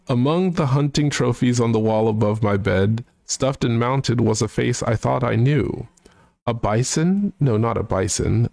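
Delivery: hoity-toity British gent voice, sung-spoken; mock posh British, half singing a comic song; British accent. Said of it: "try and also do his, uh, accent".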